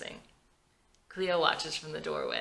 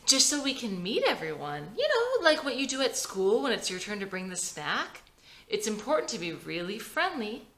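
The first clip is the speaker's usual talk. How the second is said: forced cheer; 3 semitones higher than usual. Acted. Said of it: "Vicky forces a big smile".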